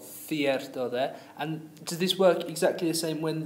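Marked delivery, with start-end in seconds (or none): 0.0-0.9 "Cierto" echoed as THYEHR-to; tongue between the teeth to start "Cierto". Shown as a demonstration. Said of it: "we stick our tongue out".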